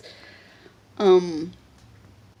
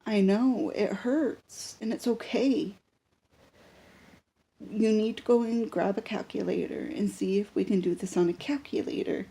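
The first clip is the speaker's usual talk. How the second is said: reassuring. Retold or imitated. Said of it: "I'm like".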